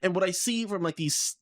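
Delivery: talking through hiccups. Real, not acted. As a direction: hiccup between words. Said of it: "ah, excuse me, I'm hiccuping".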